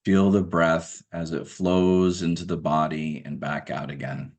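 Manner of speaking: measured meditation guidance, spaced out by long pauses; guided meditation. Acted. Guide asking listeners to observe their everyday breath, guided meditation. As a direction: calmly direct attention to the breath, leaving room between phrases.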